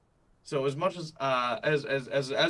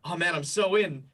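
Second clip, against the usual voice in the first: higher, playfully hooked reaction; mock keen player; 4 semitones higher, 4 dB louder than usual. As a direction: act out being totally sold. Acts out himself as eager player.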